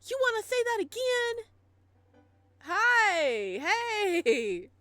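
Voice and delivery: high, loud bratty shout; bratty angry voice. Acted. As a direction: snap back at the rival. Squabbling bratty character.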